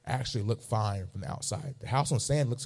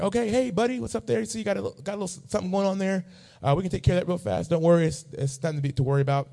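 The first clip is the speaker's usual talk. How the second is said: much higher, fast, breezy doctor voice; cheery doctor; 9 semitones higher, faster than usual. Retold or imitated. To the patient, a high breezy doctor voice. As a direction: mimic the upbeat doctor brushing it off. Retold chatty doctor at checkup.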